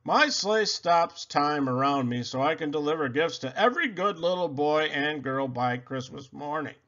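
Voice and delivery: lightly voiced jolly Santa; a touch of Santa's booming cheer.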